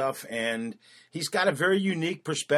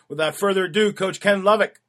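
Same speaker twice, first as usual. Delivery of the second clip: announcer intro; 7 semitones higher, 7 dB louder than usual. Acted. Podcast host introduces guest.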